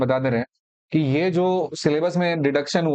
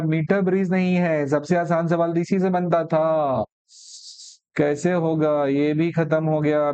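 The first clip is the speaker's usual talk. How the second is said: drawn-out, playful wail of loss; mock lament; slower than usual. Teacher mourning the deleted easy question, mock lament. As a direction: lament it slowly, stretching the words in pretend grief.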